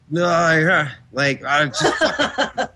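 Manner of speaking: laughing through a mock dismissal; laughing mock reviewer. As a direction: reviewer shrugs it off, mocked with a laugh. Mocking reviewer's non-answer.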